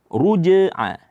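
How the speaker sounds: "Ruj'a" with the j bounced before the ain; qalqalah bounce. Shown as a demonstration. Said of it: "di sini ada qalqalah".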